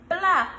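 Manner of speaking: put-on loud "Black." for the children to echo; model word. Shown as a demonstration. Teacher leading a repeat-after-me. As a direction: say it big so they copy. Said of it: "Let us say it again".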